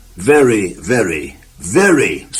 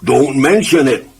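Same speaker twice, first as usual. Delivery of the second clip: muttered; 3 semitones higher than usual. Acted. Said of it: "muttered the farmer".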